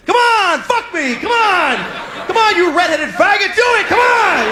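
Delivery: high, loud, frantic urging; demanding partner. Retold or imitated. Nymphomaniac girlfriend loudly urging him on in bed. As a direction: shriek at him to keep going.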